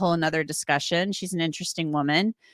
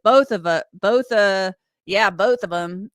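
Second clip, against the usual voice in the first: Billy voice; 2 semitones higher, 5 dB louder, slower than usual. Retold or imitated. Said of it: "I'll do it in my Billy voice".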